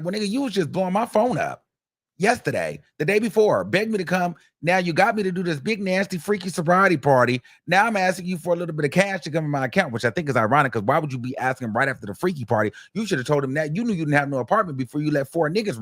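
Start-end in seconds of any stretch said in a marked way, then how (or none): 0.0-9.9 higher, sassy complaint; imitating her throwing it back at him; mock indignant girlfriend. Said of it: "And then she's like".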